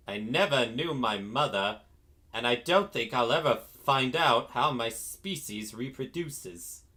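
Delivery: lightly imitated villain; a hint of a cartoon villain's voice, understated; Frieza. Quoting the villain on his own origins, lightly acted. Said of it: "Frieza literally saying".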